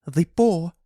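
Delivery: loud, high-pitched cry; sudden high, loud outburst; excited cry. A narrator's reading. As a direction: cry it out like a frantic wife. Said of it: "she cried".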